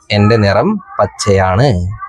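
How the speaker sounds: a touch slow, reading the leaf's line. Shown as a demonstration. Teacher slowly reads the leaf's line to the class. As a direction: read it out slowly and carefully. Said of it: "ഇല പറഞ്ഞു".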